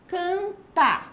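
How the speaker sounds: "Canta" split, CAN high and strong; stress on CAN. Shown as a demonstration. Teacher shows pupils the stressed syllable, "Canta" with strong high CAN. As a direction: break "Canta" in two syllables, punching CAN. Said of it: "a sílaba tônica can".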